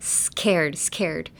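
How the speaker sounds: SCARED with an airy s before a hard k; breathy S. Shown as a demonstration. Teacher demonstrating scared to learners, airy S. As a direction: put plenty of breath into the S of scared. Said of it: "use a lot of breath".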